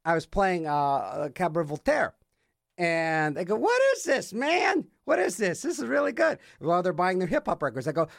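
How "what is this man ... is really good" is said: high-pitched, amazed customer quote; excited customer. Retold or imitated. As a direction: imitate a guy blown away by a record. Acts out excited record-store customers.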